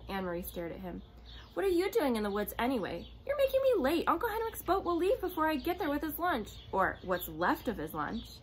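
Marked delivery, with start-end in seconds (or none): 1.5-8.4 put-on complaining girl. A narrator's reading.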